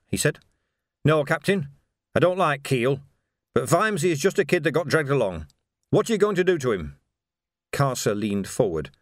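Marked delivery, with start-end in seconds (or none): 1.0-7.0 slightly raised voice, holding his ground; wary watchman Coates. Acted. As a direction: stand up to the captain without flinching.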